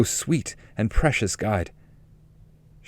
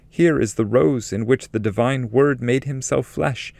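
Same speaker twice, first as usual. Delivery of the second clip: higher, exalted guiding lady; higher, solemn voice of a holy lady; Beatrice's voice; 6 semitones higher than usual. Acted. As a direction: speak as a radiant heavenly guide, lifted up in pitch. Beatrice speaks within the poem.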